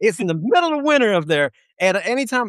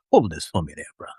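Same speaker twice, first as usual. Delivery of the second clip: preacher voice; 11 semitones lower, faster than usual. Retold or imitated. Preacher asking the usher to hold his gun, low and casual. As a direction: hand it off like a laid-back preacher.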